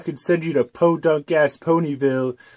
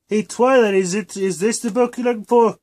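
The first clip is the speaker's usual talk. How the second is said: lightly raised, higher little-dragon voice; a hint of eager young helper; Spike voice; 5 semitones higher than usual. Spike offering Twilight the book, lightly higher voice.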